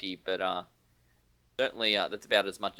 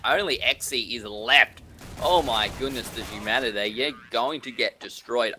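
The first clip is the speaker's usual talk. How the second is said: excited; 6 dB louder than usual. Real, not acted. Caster reacting to lopsided round.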